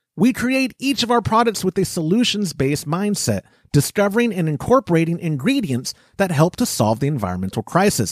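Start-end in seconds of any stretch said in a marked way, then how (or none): none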